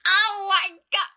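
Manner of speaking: high, loud gasp of delight; surprised shriek. Real, not acted. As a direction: shriek at your reflection. Seeing self in new glasses.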